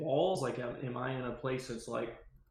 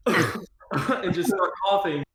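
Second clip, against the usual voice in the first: fake cough; 5 semitones higher, 8 dB louder than usual. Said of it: "start coughing up a storm".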